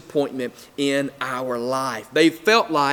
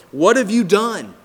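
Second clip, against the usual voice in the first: raised, higher-pitched acted accusation; accusing cry; 6 semitones higher, 5 dB louder than usual. Frightened people confronting Moses at the sea, accusing. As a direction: call Moses out, loud and high.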